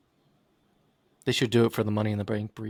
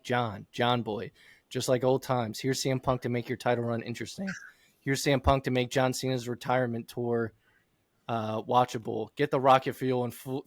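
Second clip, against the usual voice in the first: emotional reading. Acted. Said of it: "I love the emotion that you put into reading that".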